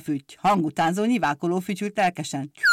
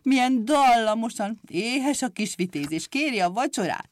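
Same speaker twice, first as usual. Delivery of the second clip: gushing grandma; 2 semitones higher than usual. Acted. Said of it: "áradozva mondta".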